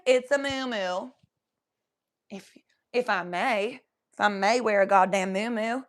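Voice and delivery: lightly put-on character accent; Mama Buckle Bitch. Correcting a viewer on the moo-moo, in character. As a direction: draw it out in a hammed-up character accent. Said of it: "so that accent I'm doing".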